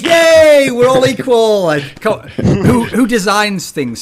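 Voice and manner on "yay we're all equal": high, loud mock "yay", hammed-up team spirit; a sarcastic squeal of fake unity; mock cheer. Host mocking the team's happy agreement, in a high mock cheer.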